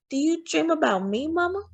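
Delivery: put-on high, hopeful little boy; child voice. A narrator's reading. Child Frederick asks Mama.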